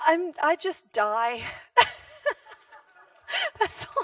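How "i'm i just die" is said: slow plain answer. Retold or imitated. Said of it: "And I'm like".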